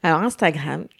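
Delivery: voix sensuelle. Real, not acted. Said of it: "ta voix sensuelle".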